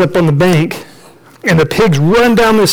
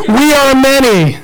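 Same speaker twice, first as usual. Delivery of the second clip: high, stretched-out cry; crazed demoniac; 6 semitones higher than usual. Acted. Demoniac repeating his name to Jesus, crazed. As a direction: cry it out slowly, high-pitched. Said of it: "he's going crazy".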